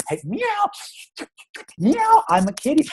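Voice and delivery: high, playful meowing kitten; playful kitty voice. Retold or imitated. Dad playing kitten for daughter, high and playful. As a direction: squeak it like a cute kitten. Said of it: "I start to go".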